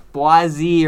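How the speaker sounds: "Boise" loudly as BWAH-zee; BWAH-zee mispronunciation. Shown as a demonstration. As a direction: say "Boise" with a wah vowel, ending in zee. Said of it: "or whatever other weird pronunciation".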